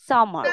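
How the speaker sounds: সামার said sama, no r at the end; no final r. Shown as a demonstration. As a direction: drop the r in সামার. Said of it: "রটা উচ্চারণ করবো না". (সামার, শেষের র বাদ দিয়ে)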